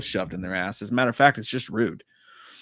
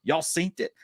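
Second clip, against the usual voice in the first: mock Colton voice; 6 semitones higher, 3 dB louder than usual. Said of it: "Colton says".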